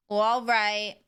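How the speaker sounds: lightly exaggerated nasal sitcom voice; Janice from Friends. Streamer trying out a sitcom character, nasal impression. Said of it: "Janice from Friends".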